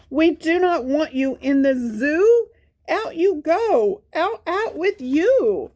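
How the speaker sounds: high, mock-stern shooing; zookeeper voice. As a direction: shoo him out in a high put-on voice. Zookeepers throwing Spot out.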